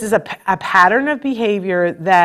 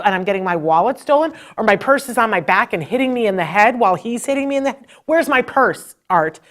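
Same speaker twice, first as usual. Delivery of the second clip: nasty retort; 3 semitones higher than usual. Retold or imitated. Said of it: "I was nasty".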